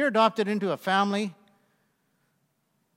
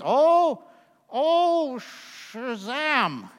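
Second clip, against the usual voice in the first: drawn-out mock gasp of Shazam; lightly hammed-up oath; mock exclamation; 3 semitones higher, much slower than usual. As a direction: say it like a sheepish substitute curse. Mock exclamation of substitute word.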